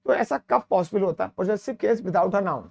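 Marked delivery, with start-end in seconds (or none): 1.3-2.6 slow rule reading. Shown as a demonstration. Teacher reads rule heading slowly.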